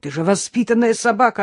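appalled, pleading with the dog; horrified reproach. A narrator's reading. Innokenty cries to his dog in dismay. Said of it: "в ужасе закричал Иннокентий".

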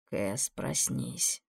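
soft, slow, low wake-up call; quiet call. A narrator's reading. Bodyguard softly waking the sleeping girl, quiet. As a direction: gently call her awake. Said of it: "негромко позвал он".

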